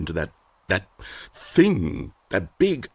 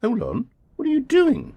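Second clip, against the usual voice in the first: sharp, very high alarmed cry. Acted. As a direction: jolt up in alarm. Stanley leaves the box.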